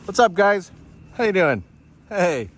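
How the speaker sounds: cheery greeting. Real, not acted. Calling out to passers-by on camera.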